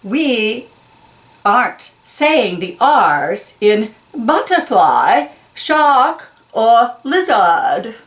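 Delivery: slow, grand royal proclamation; a lightly voiced queen, every word drawn out; queen proclaiming. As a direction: regal announcement, slow and stately. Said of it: "the Queen proclaims".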